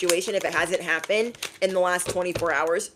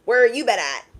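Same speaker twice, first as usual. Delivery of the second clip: casual mock greeting; 4 semitones higher, 5 dB louder than usual. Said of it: "he tried to show up last night like".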